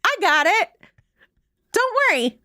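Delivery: high, hammed-up Pepe Le Pew French accent; mock French accent. Host mocking the actor's cartoonish French accent. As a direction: play the actor confidently faking a cartoon French voice. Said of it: "watched, like, Pepe Le Pew and was like".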